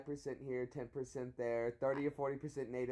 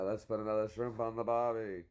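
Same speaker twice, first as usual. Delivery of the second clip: louder mock Australian catchphrase; Australian accent; 3 semitones lower, 4 dB louder than usual. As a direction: put on a hammed-up Australian accent. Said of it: "Do you know in Australia".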